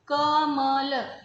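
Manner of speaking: कमल spoken very slowly, each syllable separate. Shown as a demonstration. Teacher sounding out a word for pupils, very slowly. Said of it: "अब मात्रा रूप में कैसे?".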